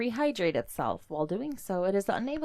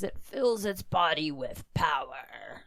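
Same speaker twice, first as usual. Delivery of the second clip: whisper; 5 semitones lower, 4 dB quieter, slower than usual. Acted. Dramatic finish to entry.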